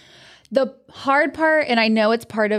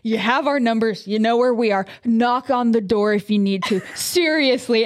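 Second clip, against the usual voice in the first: earnest neighbor. Retold or imitated. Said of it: "And he was like".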